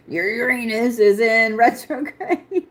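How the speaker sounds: losing it to giggles mid-sentence; real juvenile giggle breaking into the words; giggling. Real, not acted. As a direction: try to say it seriously and crack up. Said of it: "cannot say Uranus without laughing".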